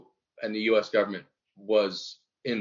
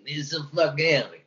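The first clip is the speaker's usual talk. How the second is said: bad Jewish accent; 5 semitones higher than usual. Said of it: "I do a very bad Jewish impression".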